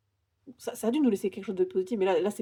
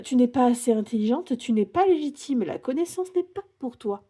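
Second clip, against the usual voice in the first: louder and higher, quoting the scornful voice; indignant mock reproach; 5 semitones higher, 6 dB louder than usual. Tarot reader voicing what women were told, indignant and loud. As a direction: hurl the dismissive words back at centuries of men.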